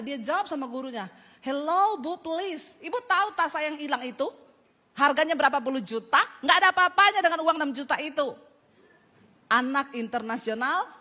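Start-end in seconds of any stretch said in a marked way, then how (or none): 1.4-8.3 murid kurang ajar. Retold or imitated. Murid membentak gurunya.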